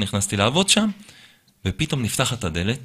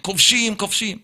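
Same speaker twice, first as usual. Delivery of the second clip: higher repeated "כובשים"; mock accusation; 9 semitones higher than usual. Boss branding the storyteller an occupier, higher mock call. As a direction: spit the word out twice like an angry boss. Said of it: "הוא אומר לי".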